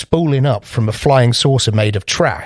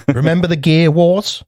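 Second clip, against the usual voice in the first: higher, eager listing; excited; 6 semitones higher than usual. Real, not acted. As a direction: pile on the examples. Excitedly listing Rick lore.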